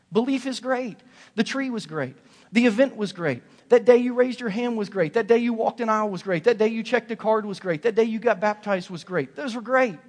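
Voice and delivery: loud, high rising preacher's build; preaching at full force. Acted. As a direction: preach it out, climbing with each line.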